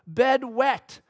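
hint of a toddler's voice; toddler son. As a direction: report it like a small child. Small son reports wet bed.

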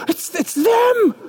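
fan spotting the celebrity; starstruck. Acted. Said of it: "you're like".

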